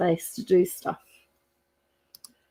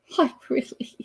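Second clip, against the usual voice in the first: soft, breathy whispered hello; whispered greeting; 4 semitones higher, 4 dB quieter than usual. Real, not acted. Host whispering hello to a viewer in chat. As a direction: whisper it under your breath.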